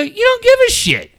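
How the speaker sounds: high-pitched exasperated accusation; worked-up retold rebuke; retold scolding. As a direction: throw it at him, pitched right up.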